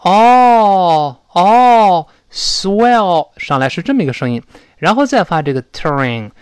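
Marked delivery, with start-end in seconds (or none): 0.0-3.3 high, loud "哦" of sudden realization; an "aha" oh, then swell; 恍然大悟的“哦”. Shown as a demonstration. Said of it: "恍然大悟的时候就说".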